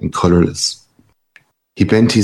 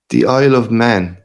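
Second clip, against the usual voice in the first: lightly mocking echo, pitched higher; amused echo; 6 semitones higher than usual. A narrator's reading. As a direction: repeat his words back with a laugh in it. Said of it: "Ignatius Gallagher laughed".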